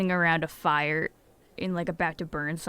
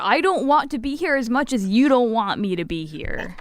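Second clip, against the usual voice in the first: raised character voice; 6 semitones higher, 6 dB louder than usual. Acted. Player voices Julie at door.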